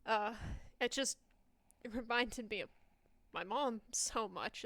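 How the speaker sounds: flustered apology. Acted. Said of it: "turn away quickly and be like".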